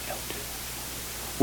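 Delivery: slow, soft whispered warning. Shown as a demonstration. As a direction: breathe the words, barely audible.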